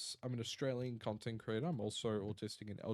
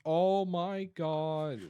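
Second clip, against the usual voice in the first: startled; 4 semitones higher, 8 dB louder, much slower than usual. Real, not acted. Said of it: "That was actually spooky".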